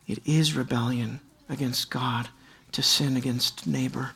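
low, soft, intimate sermon voice; hushed preaching. Acted. Preacher quietly confronting the congregation, low and soft. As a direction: lean in and speak softly to them.

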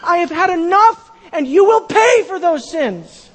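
firm divine rebuke; God's angry verdict. Retold or imitated. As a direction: thunder God's last word at Edom. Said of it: "And he says to Edom".

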